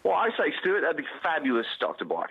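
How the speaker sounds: light mock English accent, a touch posh. Guest obliges host's request with a light mock English accent. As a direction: play at being English for a laugh. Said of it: "Give me an English accent".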